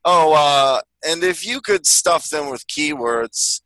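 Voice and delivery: lightly voiced drawling office boss; slow, drawn-out polite request; Bill Lumberg. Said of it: "Bill Lumberg next time".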